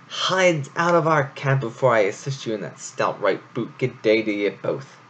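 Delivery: a touch of indignant bluster; huffy hare telling them off. Acted. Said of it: "ears quivered with indignation".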